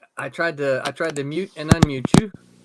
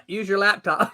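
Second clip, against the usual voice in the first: calling out; 2 semitones higher than usual. Real, not acted. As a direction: call it out so he hears. Calling out to unheard friend.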